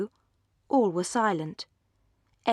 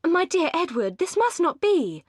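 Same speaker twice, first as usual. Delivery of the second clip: high, louder, pleading; insistent appeal not to go; urgent plea; 9 semitones higher, 4 dB louder than usual. A narrator's reading. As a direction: hold him back fondly. Marianne urges Edward to stay.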